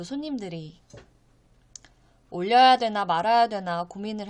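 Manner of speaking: news bulletin delivery, phrases falling evenly to a close; steady, formal Korean newsreader style; news read. Acted. Reads out the news after introducing it.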